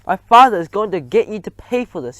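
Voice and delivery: loud, high tearful threat; shrieking threat. A narrator's reading. Bruno threatening the narrator, loud shrieking cry. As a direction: shriek it as he runs. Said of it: "he cried".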